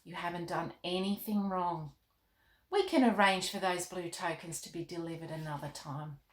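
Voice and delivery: a king calmly reassures Molly. Acted. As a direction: gently reassure the girl. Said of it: "in a calm voice".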